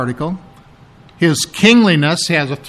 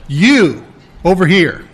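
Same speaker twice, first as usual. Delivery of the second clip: emphatic dad. Acted. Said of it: "your dad said".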